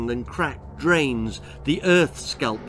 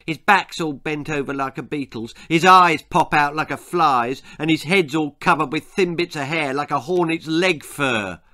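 emphatic, relishing schoolboy jeer; cruel mockery; 2 semitones higher, 4 dB louder than usual. Ginger describing the old man's looks, cruelly. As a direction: list each feature with nasty relish. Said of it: "Ginger continued cruelly".

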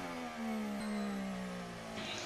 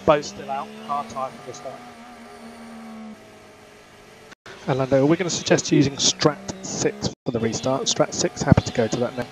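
crackly team radio transmission; race car radio. Acted. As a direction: talk like over F1 pit radio.

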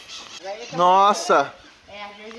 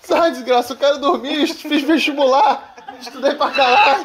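meme quote; 5 semitones higher than usual. Retold or imitated. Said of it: "Tá fazendo meme".

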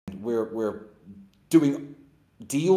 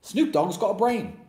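higher, slow sarcastic whine of pity; mock pity; 8 semitones higher, 4 dB louder, slower than usual. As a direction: mimic dumb people pitying him. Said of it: "dumb people would have been like".

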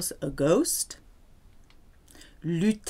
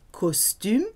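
costume said the French way, /kɔstym/; French-accented costume. Shown as a demonstration. Teacher showing costume with a French accent, French accent. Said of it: "you can say costume with a French accent".

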